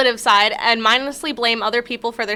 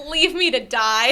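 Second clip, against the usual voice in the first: mock despair; slower than usual. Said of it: "it's just like".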